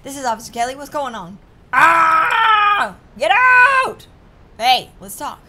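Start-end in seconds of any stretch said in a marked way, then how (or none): 1.7-4.1 furious yell, high and loud; angry shout. Acted. Drunk uncle screaming at the officer to get out, furious. Hostage taker yelling at cop.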